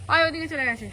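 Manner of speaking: normal talking voice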